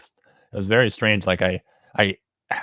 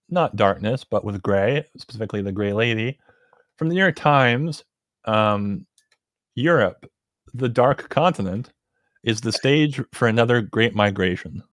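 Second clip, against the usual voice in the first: pompous sputtering colonel. Acted. Reading headline grandly.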